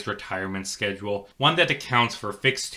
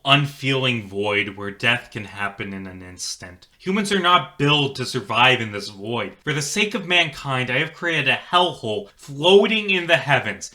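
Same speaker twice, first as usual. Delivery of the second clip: solemn recorded confession; 3 semitones higher than usual. Acted. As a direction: confess it like a last log entry. Recorded log of the creator.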